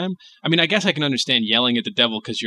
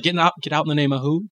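devil mishearing. Pretend. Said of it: "The devil's like".

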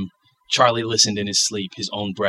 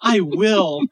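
put-on child voice; 10 semitones higher, 4 dB louder than usual.

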